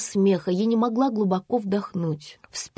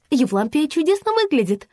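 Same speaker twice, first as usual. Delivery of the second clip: higher, sugary coo; 6 semitones higher than usual. A narrator's reading. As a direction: flatter the guest sweetly. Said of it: "проворковала Регина". (воркующе, повыше)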